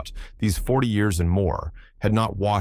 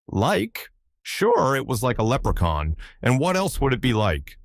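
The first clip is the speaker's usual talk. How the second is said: Irish sailor, higher pitch, indignant; 6 semitones higher than usual. A narrator's reading.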